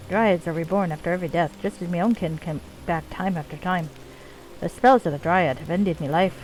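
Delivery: put-on lightly done Scottish accent for a dwarf leader; bad Scottish accent. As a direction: play the dwarven chief with a rough-and-ready Scottish accent. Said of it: "my really bad Scottish accent".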